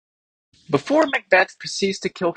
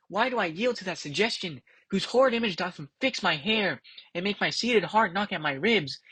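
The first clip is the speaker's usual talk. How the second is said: softer and higher, troubled musing; hushed soliloquy; 4 semitones higher, 5 dB quieter than usual. Acted. Macbeth frightened by his own thought, quiet troubled recital. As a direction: murmur the lines as a shaken Macbeth.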